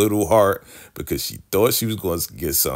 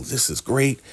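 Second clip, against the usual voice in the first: hammed-up delight; 7 semitones higher than usual. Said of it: "he'll play the role".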